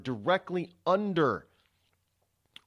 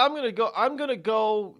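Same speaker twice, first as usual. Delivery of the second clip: mock daredevil psyching himself up, higher; daredevil's inner voice; 7 semitones higher, 4 dB louder than usual. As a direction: voice the stuntman's eager thoughts. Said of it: "this is in my head".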